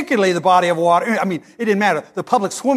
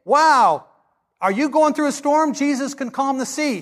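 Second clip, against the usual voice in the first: mock excitement; 6 semitones higher than usual. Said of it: "what a lot of people will say".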